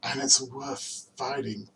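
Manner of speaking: earnest recitation, hesitant and pausing toward the close; dramatic film monologue. Acted. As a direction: reassure a friend with measured, spaced-out phrases.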